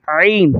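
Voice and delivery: "عین" begun with a pressed throat consonant; forceful ain. Shown as a demonstration. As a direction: squeeze the throat on the start of "عین". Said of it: "زور دے کر پڑھیں گے". ("عین" زور دے کر)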